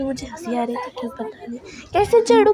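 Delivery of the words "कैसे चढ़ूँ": pitched way up and louder, how do I climb; frantic climbing cry. Real, not acted. Girl stuck on a tree, calling out high and loud in mock panic.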